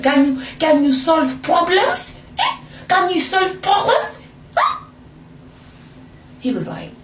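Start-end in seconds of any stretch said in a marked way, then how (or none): 0.0-4.8 high, loud, slow taunting question; patronizing drawn-out jab; condescending mock question. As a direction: talk down to him like a child. Mocking argument with boyfriend.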